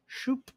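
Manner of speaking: quick, high, soft "shoop"; a little swoosh noise made by mouth; sketching sound effect. Shown as a demonstration. Drawing sound effect while sketching.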